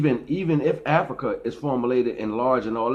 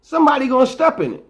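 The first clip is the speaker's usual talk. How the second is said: emphatic warning; 14 semitones higher, 7 dB louder, faster than usual. Real, not acted.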